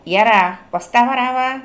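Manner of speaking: put-on calling the boy over with a warning. A narrator's reading. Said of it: "మళ్ళీ హెచ్చరించాడు".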